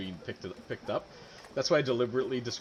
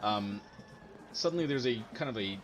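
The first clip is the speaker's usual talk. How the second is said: game master narration. A narrator's reading. GM describes portal opening.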